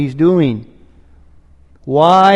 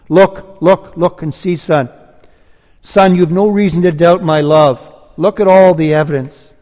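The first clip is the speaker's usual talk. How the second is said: reassuring father; 3 semitones higher, 4 dB louder than usual. Acted. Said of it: "the father's reassuring him here".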